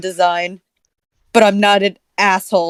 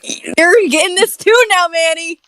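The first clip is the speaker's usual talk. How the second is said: snooty rich guy voice; 8 semitones higher than usual. Acted. Mock rich guy voice, high.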